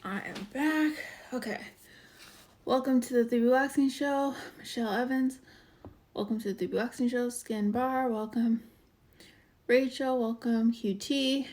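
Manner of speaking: a bit out of breath from the stairs; winded, catching breath. Real, not acted. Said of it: "I'm a little out of breath".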